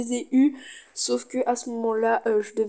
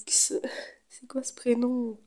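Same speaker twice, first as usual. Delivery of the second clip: whispering; 5 dB quieter, much slower than usual. Real, not acted. Puzzled whispered aside on a name.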